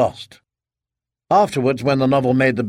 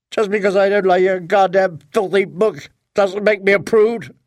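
furious yell; 5 semitones higher than usual. Acted. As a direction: hurl it like the plate. Wife yells after throwing plate.

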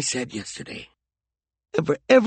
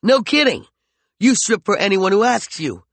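higher, louder cutting taunts; angry taunting; 6 semitones higher, 4 dB louder than usual. Acted. McCoy taunts Peregrine in their quarrel, louder and higher. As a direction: wound her with every word.

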